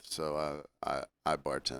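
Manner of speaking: low, soft mock-modest aside; imitating a customer's hushed, halting reveal; coy confession. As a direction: mumble it as a hesitant humblebrag.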